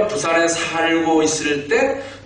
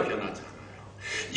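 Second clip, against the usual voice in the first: slow, near-whispered echo; hushed repeat; 6 semitones lower, 17 dB quieter, slower than usual. Real, not acted. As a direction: drop to a slow whisper to let it sink in. Repeats the point under breath. (속삭이듯 낮추어 천천히 되뇌며)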